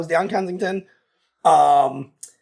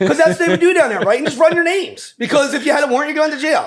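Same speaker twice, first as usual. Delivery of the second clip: laughing, higher and louder; 7 semitones higher, 3 dB louder than usual. Real, not acted. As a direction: chuckle through the story. Laughing while telling arrest story.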